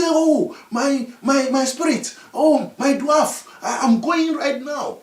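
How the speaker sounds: frightened. Acted. Chief frightened, obeying.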